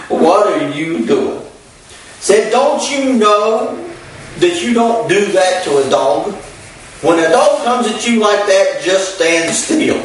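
high, slow scolding shout at a stranger; drawn-out, high-pitched telling-off, acted as retold; imitating a hollering owner. Dog owner hollers at the preacher who backed away, high and slow scolding. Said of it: "came out hollering at her dog".

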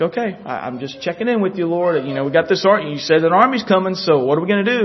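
casual, untroubled check-in; understated, easy conversational manner; at peace. Retold or imitated. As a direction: act out an unworried question, lightly. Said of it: "So he was at peace about it".

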